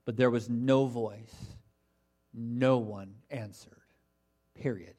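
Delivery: slow, weighty stress on "no voice", then "No one answered"; "no voice" drawn out, low and final, with "Period" dropped after it; emphatic. Shown as a demonstration. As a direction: spell out "no voice. No one answered. Period." slowly, pausing between each. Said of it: "how emphatic the text is".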